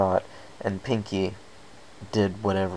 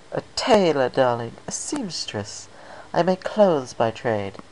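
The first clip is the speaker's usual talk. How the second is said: refined, higher lady voice; a hint of an elegant fashionista; lightly voiced Rarity; 5 semitones higher, slower than usual.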